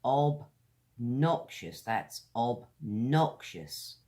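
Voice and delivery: slow "obnoxious" with a small gap after "ob"; deliberate, spaced-out "obnoxious"; careful pronunciation demo. Shown as a demonstration. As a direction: model "obnoxious" slowly for learners. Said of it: "pay attention to how we say these words".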